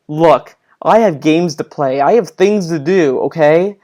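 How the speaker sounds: slow, emphatic self-justifying; mock exasperated excuse, spelling it out; overly defensive. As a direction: imitate someone defending himself. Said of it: "be overly defensive".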